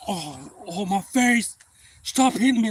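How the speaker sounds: high, loud mocking whimper; mock whining. Beaten bully begging him to stop, mocking whine.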